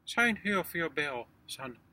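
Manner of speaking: loud, high gruff desk sergeant; weary gruff desk sergeant. Retold or imitated. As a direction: bark it like a bored sergeant. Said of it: "said the desk sergeant".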